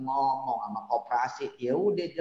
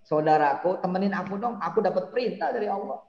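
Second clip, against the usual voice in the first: mock formal address; 4 semitones higher, 5 dB louder, faster than usual.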